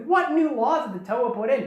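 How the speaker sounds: high-pitched startled disbelief; mock astonished question. Vakama hearing of new laws from Nokama, imitated astonishment. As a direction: ask it as if completely thrown.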